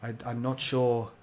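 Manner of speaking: put-on an old friend's last desperate plea; Carol pleading. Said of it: "Carol goes".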